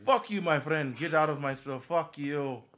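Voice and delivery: loud mock shopkeeper. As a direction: belt out the owner's insult. Repeating owner's curse.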